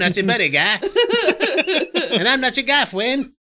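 high, mock Canadian accent from South Park. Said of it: "turning into South Park Canadian".

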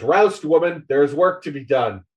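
lightly hammed-up call through a door; acted summons to get working; rousing call. Spider bangs on door, rousing her.

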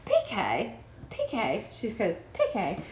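lightly put-on faux European accent; a hint of an acquired accent; Dorit impression. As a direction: say PK like a jet-set socialite. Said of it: "that's my Dorit impression".

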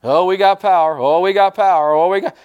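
a lightly mocking overexcited voice; mock excited bragging. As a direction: ham up a proud owner showing off. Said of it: "you don't emphasize the power".

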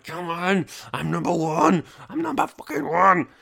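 high, loud self-hype yelling; pumped-up hype shout. Retold or imitated. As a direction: shout it like a champion. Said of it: "I'm like".

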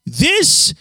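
shouting. Real, not acted. Ranting about government.

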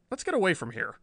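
a touch of jittery policeman; uneasy, rising complaint; nervous Riley. Acted.

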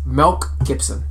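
"Milk" said as "Melk", like Mel. Shown as a demonstration. Co-host explaining his accent, "Milk" as "Melk". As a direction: make "Milk Gibson" sound like "Melk Gibson". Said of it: "I'm saying it like this".

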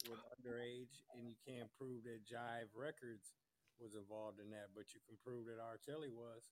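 faint, distant phone line; far from mic. Real, not acted. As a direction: caller sounding far away and low. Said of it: "you sound like you're far away".

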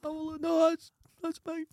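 very high, squeaking protest; squeaky high voice. Pretend. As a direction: squeal it like a cartoon.

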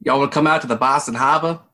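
light, quick Boston accent; a hint of a Boston local inviting friends out. Shown as a demonstration. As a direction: toss off a fast Boston accent line. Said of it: "can you do a Boston accent?".

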